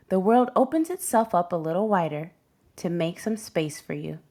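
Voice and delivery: gentle, measured picture-book narration; reading to children. A narrator's reading. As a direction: storytime read-aloud voice. Reads picture book to class.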